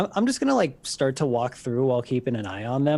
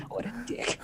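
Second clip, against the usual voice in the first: high, soft, through real laughter; laughing; 10 semitones higher, 10 dB quieter than usual. Real, not acted. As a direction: say it while cracking up. Player cracking up at the scene.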